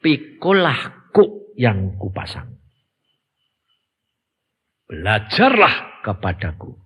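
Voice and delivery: "Pikulah kuk yang kupasang" said low, soft and slow. Shown as a demonstration. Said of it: "Yang kamu harus ingat apa?".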